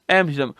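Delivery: एम्स्टर्डम pronounced with the T dropped; silent T. Shown as a demonstration. Teacher repeating it for students, एम्स्टर्डम with silent T. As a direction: keep the T unspoken in एम्स्टर्डम. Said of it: "पर टी silent है".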